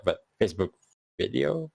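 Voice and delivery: hesitant, with a questioning lift on video; unsure. Real, not acted. Host listing where to watch episodes, sounding unsure. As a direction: feel your way to the answer. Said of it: "You're unsure".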